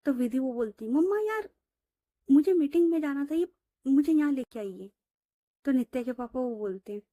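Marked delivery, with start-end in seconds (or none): 0.9-4.9 high, fast complaining to mom; mock whine, a bit louder; whiny complaint. Daughter complains to mother. (मम्मा से शिकायत करती हुई बेटी)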